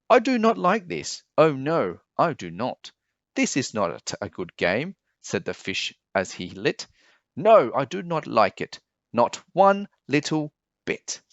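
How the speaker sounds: a soaked pet grumbling; upset fish. Acted. The fish after falling in the pot.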